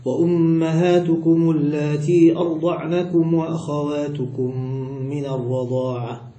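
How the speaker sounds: slow, measured recitation with long-held vowels; Quran recitation. Acted. Teacher cites God's word as proof, slow Quran recitation. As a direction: recite the verse slowly, stretching the elongations. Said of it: "قال الله تعالى".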